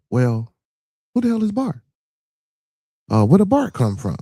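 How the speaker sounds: high, baffled who-the-hell; puzzled question. Retold or imitated. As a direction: people asking who Bart is. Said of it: "were saying".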